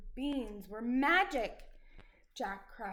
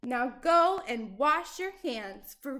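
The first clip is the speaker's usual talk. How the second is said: bossy scold; 5 dB louder than usual. Acted. Giantess orders giant.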